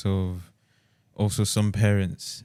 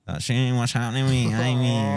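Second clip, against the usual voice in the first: put-on Scottish accent, pitched slightly up; 3 semitones higher than usual. Parent mocking the accent their kid might pick up, put-on Scottish accent. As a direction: mimic a Scottish accent for effect. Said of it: "like, a Scottish accent".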